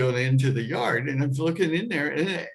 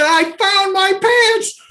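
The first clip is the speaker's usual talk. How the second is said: high, loud, slow triumphant announcement; stretched-out exultant cry; triumphant shout; 8 dB louder, much slower than usual. Retold or imitated. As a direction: crow it out proudly. Triumphant announcement to dog owner.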